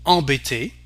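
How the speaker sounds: embêté opening on a nasal "on"; French nasal en. Shown as a demonstration. Teacher demonstrating the sound to learners, French nasal en. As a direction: say embêté as "on-beh-TAY", no M sounded. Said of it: "We have the sound en".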